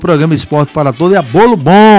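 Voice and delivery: upbeat radio sponsor announcement; radio ad read. Acted. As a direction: read the ads like a local DJ. Host reads sponsor ads.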